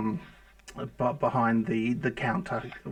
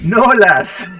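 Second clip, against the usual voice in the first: loud, high mock-Irish accent; hammed-up Irish dwarf; 7 semitones higher, 11 dB louder than usual. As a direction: play up a bad Irish brogue. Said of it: "Not heard an accent like yours before".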